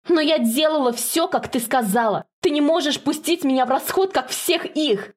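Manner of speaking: begging her mother not to cast her aside; pleading shout. Acted. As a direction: cry out, the last words slowed right down. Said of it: "кричит блондинка".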